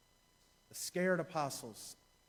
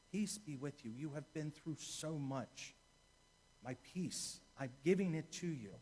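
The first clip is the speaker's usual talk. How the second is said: tender comfort. Shown as a demonstration. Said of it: "The first piece".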